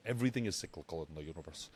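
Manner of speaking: quick first take; fast. Shown as a demonstration. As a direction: rush through it. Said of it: "You see that?".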